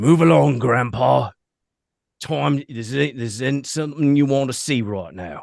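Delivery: rough, gritty, gravel-toned voice. A voice standing above the listener warns an older man away: gravelly voice. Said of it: "you hear the gravelly voice".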